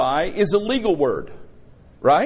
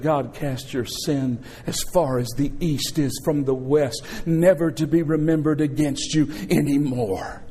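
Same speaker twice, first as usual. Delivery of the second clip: gentle, assuring; 4 semitones lower than usual. Retold or imitated. Holy Spirit testifies for believer.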